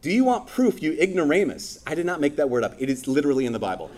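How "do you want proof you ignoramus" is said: much higher, scornful question; sassy jab. Retold or imitated. James taunting the ignorant believer, sassy and high. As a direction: jab at them playfully with scorn. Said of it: "super sassy".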